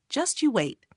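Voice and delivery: gritted-teeth threat. A narrator's reading. Brother thinking of revenge on Bomb, gritted teeth. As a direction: grit your teeth and vow revenge. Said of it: "as he grits his teeth thinking".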